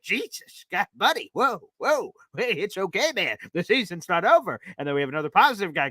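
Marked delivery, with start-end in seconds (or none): 0.0-4.6 higher, alarmed soothing; mock calming. Host calming a doom-saying caller, higher and hurried. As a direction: talk him down off the ledge. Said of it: "And I'm like".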